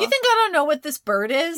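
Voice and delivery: menacing villain. Acted. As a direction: throw it back at him in contempt. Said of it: "He says".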